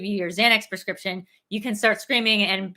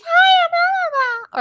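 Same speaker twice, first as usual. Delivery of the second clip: put-on high falsetto girly hello; mock drag voice; 7 dB louder than usual. Mocking the drag voices that bug him. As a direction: squeal it up in a camp falsetto. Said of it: "drag voices".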